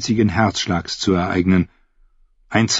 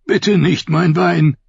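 high, slow, begging whimper; whimpering plea; 8 semitones higher, slower than usual. A narrator's reading. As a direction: plead for his life. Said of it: "wimmerte Dick". (langsam wimmernd flehen)

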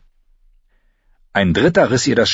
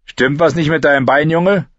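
higher, mock-caring question; a soldier feigning concern; spearman; 8 semitones higher, 4 dB louder than usual. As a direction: spearman sizing up the boy. Spearman asking the boy.

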